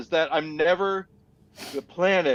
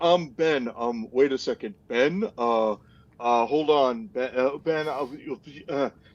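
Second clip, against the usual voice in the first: low, hesitant, halting and stumbling delivery; 4 semitones lower than usual. Imitating his own habit of interrupting the other speaker: imitating himself interrupting hesitantly. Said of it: "that's my impression of myself".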